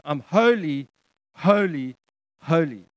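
"holy" three times, each falling after a pause; emphatic triple proclamation. Retold or imitated. Preacher voicing God's proclamation to us, emphatic and spaced. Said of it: "saying it three times in succession".

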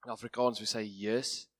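hoarse, worn-out voice. Real, not acted. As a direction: voice nearly gone, push through it. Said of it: "So my voice is gone".

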